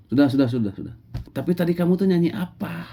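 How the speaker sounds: high, sharp scolding voice; stern prophet Musa. Acted. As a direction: call him over and scold him. Musa interrogates the shepherd. (Musa menegur dengan suara tinggi)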